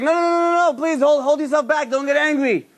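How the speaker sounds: backing off a man about to punch; mock alarmed pleading; panicked pleading. Doorman calms angry husband.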